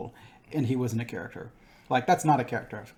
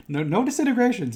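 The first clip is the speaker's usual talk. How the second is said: mock shout; 11 semitones higher, 8 dB louder than usual. Mocking Vader's order.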